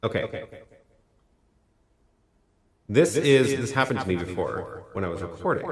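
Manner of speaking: speech with trailing reverb echoes; echoey God voice. Real, not acted. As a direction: voice repeating in an echo. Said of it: "your echoey God voice".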